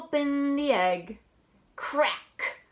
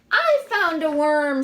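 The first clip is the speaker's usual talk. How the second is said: excited duck; 4 semitones higher, 9 dB louder than usual. Acted. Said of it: "said the duck".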